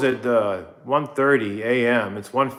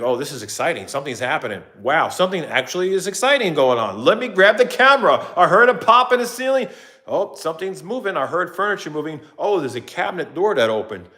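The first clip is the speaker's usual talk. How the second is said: mock excitement; 5 semitones higher than usual. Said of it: "any little thing gives me a reason to grab a camera".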